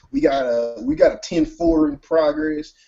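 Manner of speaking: high, lightly voiced radio call; cop on the radio. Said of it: "his radio and he calls for backup".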